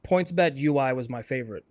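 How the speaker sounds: hoarse sore-throat voice; talking through a sore throat. Real, not acted. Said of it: "I have a sore throat and it's, like, struggling to talk right now".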